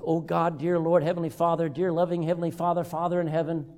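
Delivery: imitated droning invocation; mock repetitious prayer. Worshipper piling up names for God, mock droning. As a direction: run the titles together on one even note. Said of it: "How about this one?".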